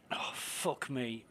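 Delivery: slow, unvoiced whisper under the breath; whispered curse. Real, not acted. Gamer whispers a curse at his missing ship, slow and hushed. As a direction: breathe the curse out quietly to yourself.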